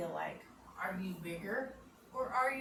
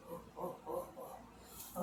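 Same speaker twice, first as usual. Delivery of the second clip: quiet gorilla hoots; 3 semitones lower, 9 dB quieter than usual. Shown as a demonstration. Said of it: "give our best animal voices".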